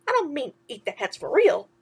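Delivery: chirpy sidekick asking what's wrong; a hint of cartoon mouse; lightly voiced mouse. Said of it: "Timothy explained".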